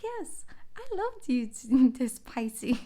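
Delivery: high, delighted squeal with a laugh; giddy high voice breaking into a laugh. Pretend. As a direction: swoon over them.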